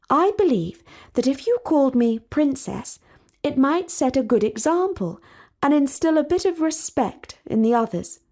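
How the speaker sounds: a hint of a proper princess, mildly disapproving; lightly voiced prim princess; haughty princess. Talia asks for her title.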